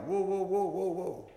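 high, loud pleading whoa; crying out. Retold or imitated. Rejected believers crying out to Jesus, high pleading cry. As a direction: beg to be let in, voice jumping up. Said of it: "they're crying out".

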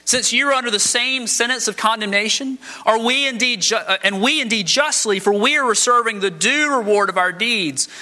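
earnest rebuke. Retold or imitated. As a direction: scold the other thief, then defend the innocent man. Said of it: "But the other rebuked him".

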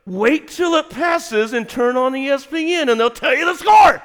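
lightly mocking high wife voice; imitating wife. Wife telling husband to check ESPN, light mock impatience. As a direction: patiently lecture in her voice. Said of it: "And she goes".

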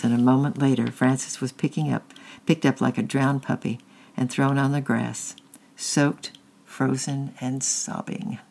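steady, even read-aloud storytelling; story narration. A narrator's reading. Parent reading a chapter book to children, steady storytelling.

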